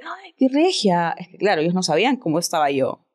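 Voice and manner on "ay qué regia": agudo y lento, halago exagerado; elogio imitado. Retold or imitated. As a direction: imita a la gente que te halaga, alargando. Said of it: "la gente". ("Ay, qué regia" dicho agudo y lento, imitando a la gente)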